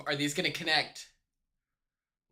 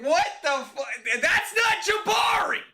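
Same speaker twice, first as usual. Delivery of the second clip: retold shock; 11 semitones higher, 4 dB louder than usual. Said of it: "I was like".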